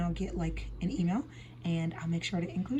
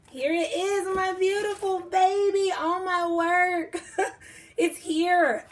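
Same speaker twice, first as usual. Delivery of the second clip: high-pitched excitement; 10 semitones higher, slower than usual. Real, not acted. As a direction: coo it up high and slow. Holding finished book up.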